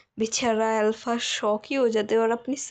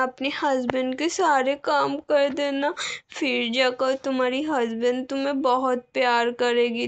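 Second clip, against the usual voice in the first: innocent bride. Acted. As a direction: say it like a timid child quoting mom. Omega lists mom's rules. (मासूम, ऊँची आवाज़ में डरी हुई दुल्हन)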